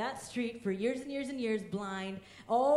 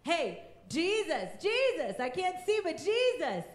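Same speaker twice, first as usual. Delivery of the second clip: calling out; 5 semitones higher than usual. Retold or imitated. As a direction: shout for Jesus over the crowd. Blind man calling out to Jesus.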